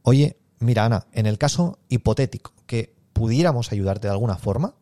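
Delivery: easy, low-pitched, setting the sale aside; non-committal. Shown as a demonstration. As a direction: float it without promising anything. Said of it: "Es como, lo estoy aquí como".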